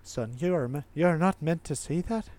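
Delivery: lightly voiced Irish dad; Irish accent. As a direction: try a slight Irish accent. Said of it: "maybe he's an Irish guy".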